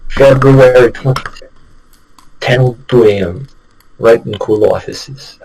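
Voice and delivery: slipping into a British accent. Shown as a demonstration. Trying the game's opening line, slipping into British. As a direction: drift lightly toward a British accent. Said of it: "like, a British accent".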